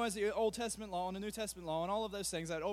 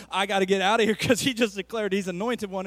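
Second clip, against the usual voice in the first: mock urgency; 3 semitones lower, 9 dB louder than usual. Acted moviegoer fleeing the cinema.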